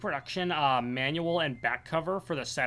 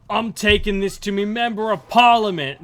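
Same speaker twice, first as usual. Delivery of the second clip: loud, higher Aussie indignation; mock Australian accent; 5 semitones higher, 9 dB louder than usual. Fan acting father who suspects a prank, indignant Australian accent. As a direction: declare it as a riled Australian. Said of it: "cut to Australia".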